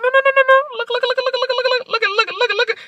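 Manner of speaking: high, loud silly chant of "look"; goofy loud taunt. Retold or imitated. Mom clowns loudly at the girl, high and silly. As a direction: ham it up, crazy-mom style. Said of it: "I said".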